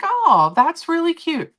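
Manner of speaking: high, slow gushing reply; gushing cute. Retold or imitated. Telling the coworker about her puppies, high gushing coo.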